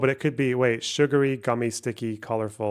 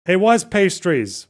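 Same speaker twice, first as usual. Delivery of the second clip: higher, louder, slow and indignant; annoyed; 6 semitones higher, 7 dB louder, slower than usual. Real, not acted. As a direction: spell out the answer in annoyance. Reading missed answers, annoyed.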